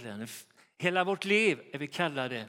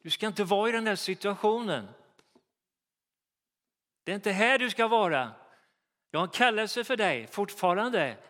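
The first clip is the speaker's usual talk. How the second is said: higher, louder, urgent voice of God; God's voice; 4 semitones higher, 3 dB louder than usual. Retold or imitated. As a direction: urge him up out of despair. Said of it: "då säger Gud".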